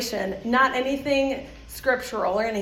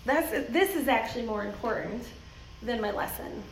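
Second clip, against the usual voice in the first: calm rethink; 6 dB quieter than usual. Retold or imitated. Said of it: "you have to go".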